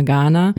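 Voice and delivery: "Ghana" like the country, long first a and short n; mispronounced single N. Shown as a demonstration. Singer showing her wrong habit, "Ghana" as in the country. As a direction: stretch the first a of "Ghana", with one quick n. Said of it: "Das ist komplett falsch".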